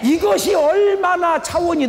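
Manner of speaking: emphatic shout. Real, not acted. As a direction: drive the point home with a slow high shout. Preacher climaxes the point.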